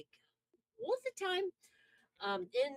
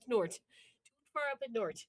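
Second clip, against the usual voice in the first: Wisconsin accent. Shown as a demonstration. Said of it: "It's our accent".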